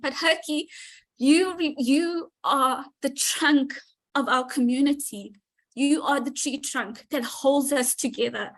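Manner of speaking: fighting back real tears while thanking him; choked up. Real, not acted. Thanking Herky for holding the community, choked up and tearful. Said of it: "I'm sorry, I'm getting emotional".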